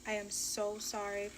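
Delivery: soft, slow, hushed apology; sorry apology. Retold or imitated. To the baby daddy in the car, a soft, slow, sorry apology. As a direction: breathe out the sorry, quietly ashamed. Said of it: "all I could say is".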